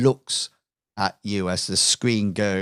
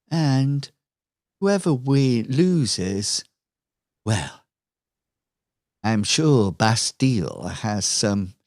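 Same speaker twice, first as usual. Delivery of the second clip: smug villain Lucille. Acted. Villain Lucille taunts Jack on screen, lightly voiced smug villainess. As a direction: tease the hero with mock concern.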